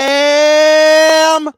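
loud high shout; yelling ham. Pretend. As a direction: belt it out at the top of your lungs. Excited shout of the word ham.

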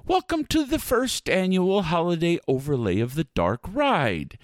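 grand announcer welcome; spooky ride narrator. Acted.

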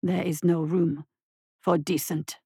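low amused beast; spiteful amusement. A narrator's reading. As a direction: savour the cruelty. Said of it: "eyes twinkling with spiteful amusement".

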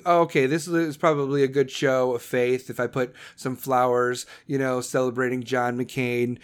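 a hint of a clueless politician thinking aloud; mock inner voice. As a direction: dim her thoughts down to a dopey murmur. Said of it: "she was thinking".

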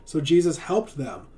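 animated, expressive storybook narration; lively storyteller with playful emphasis; children's story reading. A narrator's reading. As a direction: read a Bible tale aloud to kids. Reads a children's Bible story.

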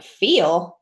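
squeaky, awkward brush-off that keeps rising in pitch; awkward high-pitched voice. Retold or imitated. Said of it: "you know, high-pitched voice, like, awkward".

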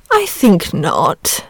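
put-on the dragon dismisses the boy's fear, lazily; lazy. A narrator's reading. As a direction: shrug it off lazily. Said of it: "in his lazy way".

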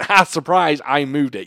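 spring it like a triumphant reveal; gleeful prank reveal. Acted. Prankster springing the moved-car trick on a friend, gleeful.

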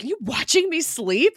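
high, loud mock-startled question; imitating Raina, creeped out and alarmed; freaked out. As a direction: act out being spooked awake. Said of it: "like, all freaked out".

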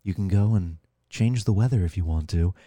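low, soft, unenthusiastic imitation; mock a sarcastic video guide in a low, quiet voice. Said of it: "doing it sarcastically".

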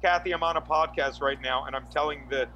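measured dictation into a phone, dropping low at the end; dictating a text. Real, not acted. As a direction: dictate a message, punctuation spoken aloud. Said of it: "I'm gonna text to speech".

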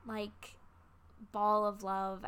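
a tearful sigh, then whispered; choked whisper. Real, not acted. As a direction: voice catching, barely voiced. Grieving over her dead dog.

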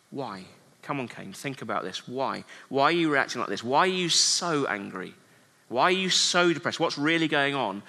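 gentle questioning. Pretend. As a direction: draw him out tenderly. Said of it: "as God comes to Cain and he asks".

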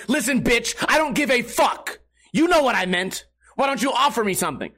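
mock fury that he only thinks; inner rage. The streamer voices what he silently wants to tell the bartender, mock rage. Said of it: "My brain is exploding".

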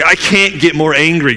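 mildly heated acted protest; retold anger. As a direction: imitate someone fed up and angry. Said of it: "he's at the peak of anger".

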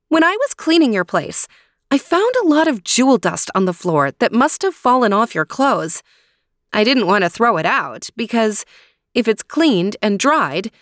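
put-on bright, high girlish princess voice; sweet eager young heroine. Snow White explains to the dwarves.

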